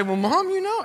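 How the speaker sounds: put-on high, squeaky evasive teen; guilty teenager. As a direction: squirm like a caught kid. Guilty teen answering his mother.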